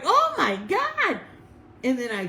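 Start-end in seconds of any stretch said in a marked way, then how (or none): 0.0-1.2 high, slow gasp of shock; mild mock scream of surprise; surprised exclaim. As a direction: let it out like seeing a ghost. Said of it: "I screamed".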